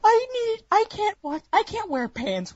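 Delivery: high, squealing overexcited fan; high breathless fanboy gushing; giddy fan. Pretend. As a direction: gush like a fan blown away, voice way up. Acting out a first-time viewer.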